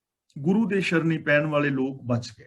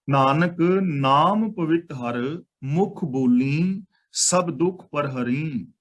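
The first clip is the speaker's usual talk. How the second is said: slow scripture recitation; slower than usual. Shown as a demonstration. Reciting the full verse.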